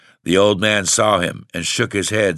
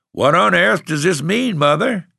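high, stunned disbelief breaking from him; shocked gasp; 10 semitones higher, 4 dB louder than usual. A narrator's reading. Old farmer shocked to find his family in the barn, gasping high. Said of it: "he gasped".

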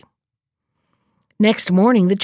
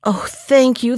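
thankful, near usual pitch; grateful cry; 3 semitones higher than usual. Acted. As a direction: say it gladly. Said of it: "he cried".

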